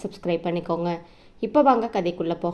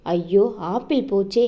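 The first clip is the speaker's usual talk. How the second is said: mock wail. Wife loses her apple.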